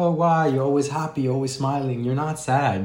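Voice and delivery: imitating people questioning a sad name; puzzled friends. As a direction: play the confused followers who can't believe it. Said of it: "And people were like".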